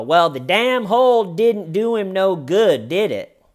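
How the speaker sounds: loud, high, singsong retort; detective on her level. Retold or imitated. Detective leans in to suspect about hole, loud mock retort. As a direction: throw it back loudly, imitating a detective talking down. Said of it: "trying to get more on her level mentally".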